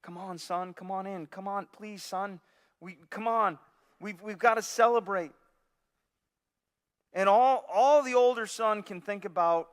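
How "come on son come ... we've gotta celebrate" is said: pleading. Retold or imitated. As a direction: gently plead with the son to come in. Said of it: "he pleads with him".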